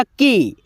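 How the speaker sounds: "के" with a long, held ए; demonstrated vowel. Shown as a demonstration. Teacher answering what must be said, drawn-out "के". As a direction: stretch out the vowel in "के". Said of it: "क्या बोलना होगा?".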